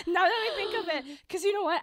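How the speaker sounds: high laughter through words; laughing. Real, not acted. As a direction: laugh while admitting it. Laughing at own lie.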